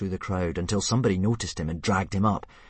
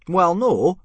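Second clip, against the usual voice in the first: admitting; 12 semitones higher, 10 dB louder than usual. Acted. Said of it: "Gobber admitted".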